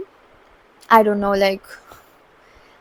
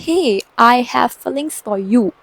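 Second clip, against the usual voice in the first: slow, drawn-out mock confession; imitated confession; much slower than usual. Male best friend confesses to the teller, imitated slow confession. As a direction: lightly act out a friend's slow declaration.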